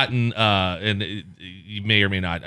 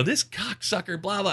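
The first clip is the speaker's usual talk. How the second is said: soft, higher-pitched grumbled insult; hushed mock cursing aside; muttered cursing; 8 semitones higher, 7 dB quieter than usual. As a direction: badmouth someone under your breath. Muttered insults with caller on hold.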